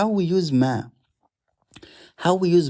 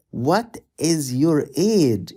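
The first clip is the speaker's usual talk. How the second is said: slow model phrase; 3 semitones higher, slower than usual. Shown as a demonstration. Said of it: "So how to say".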